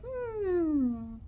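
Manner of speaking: high, drawn-out hum; a long high "hmm" sliding gently down; high playful mock hum; high teasing hum. Teases guy with a sound.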